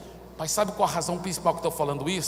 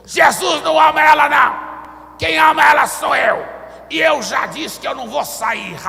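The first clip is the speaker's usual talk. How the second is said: loud, high-pitched defiant demon shout; demon's roar; 8 semitones higher, 14 dB louder than usual. Retold or imitated. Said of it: "o demônio respondeu". (berro de demônio desafiador)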